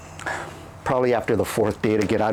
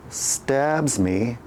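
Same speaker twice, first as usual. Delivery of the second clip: ordinary delivery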